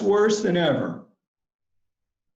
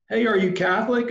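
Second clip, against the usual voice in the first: raised, quick hopeful question; 6 semitones higher, faster than usual. Retold or imitated. Missionary calling out hopefully to passing young people. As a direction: ask it with eager hope, a little higher. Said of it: "I asked hopefully".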